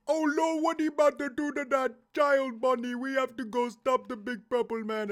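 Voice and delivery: loud, high-pitched mock panic; hammed-up alarmed Freddy. Gamer voicing Freddy urging Bonnie to act, high mock panic. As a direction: cry out in high, exaggerated alarm. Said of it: "He's like".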